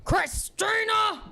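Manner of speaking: slow, high, drawn-out call. Retold or imitated. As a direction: call her name across the lot. Dad calling out from car.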